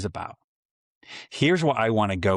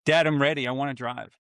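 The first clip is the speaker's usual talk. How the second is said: mildly eager, lifted start; lightly voiced excited daughter; excited teen; 4 semitones higher than usual. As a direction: imitate a kid keen to drive. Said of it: "she's just excited".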